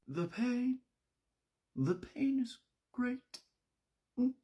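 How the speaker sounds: high, slow dying moan; hammed-up suffering, drawn out; mock agony. Brandy bleeding out and one-upping Evie, melodramatic agony.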